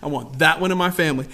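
low, soft, intimate statement; God's quiet choosing. Acted. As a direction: quietly claim someone as yours. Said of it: "He said".

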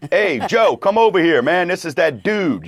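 excited bar guy calling out. Retold or imitated. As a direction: call your friend over, excited. Stranger calling friend over.

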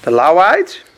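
loud, rising echo of the answer; loud rising repeat; loud echo question. Real, not acted. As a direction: throw the answer back to the room.

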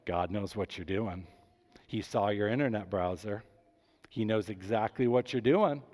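low haunting preacher voice; spooky voice. Retold or imitated. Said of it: "They do the spooky voice".

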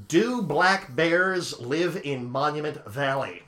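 slowly spelling it out for the phone; slow, clear for voice search. Shown as a demonstration. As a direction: say each word slowly to a voice assistant. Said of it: "It only picked up the word valley".

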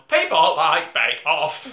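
slow, laughing mock decree; laughing mock pitch. Podcaster mocks the Netflix algorithm, laughing slowly. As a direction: announce it slowly while cracking up.

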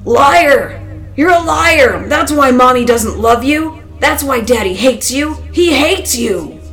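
loud, high-pitched rage; furious, boiling-over tirade; hateful shouting. A narrator's reading. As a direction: scream accusations with venom. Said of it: "Scott's voice trembled under its own weight".

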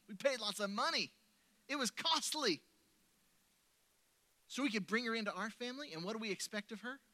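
excited retold preaching. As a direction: preach it with rising joy. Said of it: "And then she started preaching".

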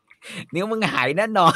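Gordon Ramsay warning. Retold or imitated. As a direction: lay down the verdict slowly. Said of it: "กอร์ดอน แรมซี่บอก".

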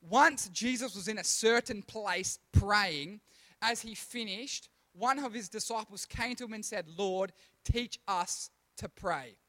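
slow, measured second reading of the verse. Shown as a demonstration. Pastor rereading the verse to the youth group, slow and measured. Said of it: "So we're gonna read that again".

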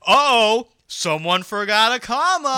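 high, loud fussy voice; mock pedant. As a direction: squeal it like a pedant. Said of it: "We're not gonna be like".

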